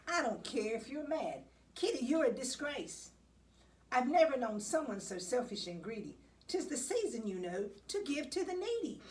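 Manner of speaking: hammed-up indignant telling-off; stern lecture. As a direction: tell the greedy cat off. Lecturing selfish Kitty.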